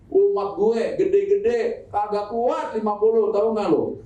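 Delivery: slow, drawn-out Betawi talk; Betawi accent. Retold or imitated. Musa in Betawi slang tells the Prophet his people can't manage. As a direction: lay on a lazy Betawi accent. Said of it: "Ini Musa kan orang Betawi".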